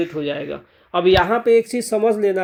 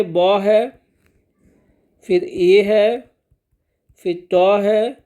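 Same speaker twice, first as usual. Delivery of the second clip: spelling out slowly; much slower than usual. Shown as a demonstration. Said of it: "तो देखिए".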